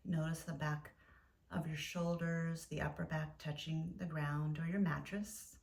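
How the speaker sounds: gentle yoga nidra guidance with long pauses; guided meditation. Acted. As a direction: guide listeners into stillness, leaving space between phrases.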